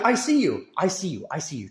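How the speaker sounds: taunt, then let it die down; fading taunt. Real, not acted. Taunting a rival fan.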